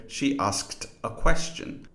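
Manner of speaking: "asked" with k, s and t all sounded; careful final t on "asked"; full final cluster. Shown as a demonstration. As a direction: articulate the whole kst ending of "asked". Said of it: "with the final consonant cluster".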